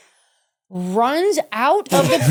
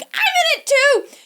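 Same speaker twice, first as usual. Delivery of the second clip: frantic, all in; 4 dB louder than usual. Retold or imitated. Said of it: "And I'm like".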